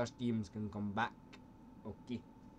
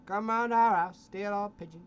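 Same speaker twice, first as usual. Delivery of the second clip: angry shouting; 8 semitones higher, 9 dB louder than usual. Pretend. Angry northerner rant in character.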